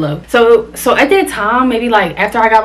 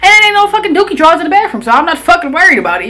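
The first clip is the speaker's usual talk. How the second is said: laughing; 7 semitones higher, faster than usual. Real, not acted. Laughing continuation of the comeback.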